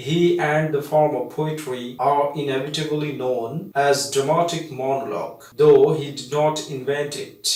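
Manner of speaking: very slow, word-by-word model answer read aloud; slow dictation. Shown as a demonstration. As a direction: dictate the model answer so students can write. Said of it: "সেটা এখন তোমাদেরকে পড়ে দেখাচ্ছি।".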